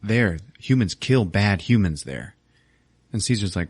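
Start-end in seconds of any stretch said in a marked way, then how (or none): 0.0-2.4 slow, simple ape voice warning of a bad place; a chimp warning slowly. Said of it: "Bad Ape is like".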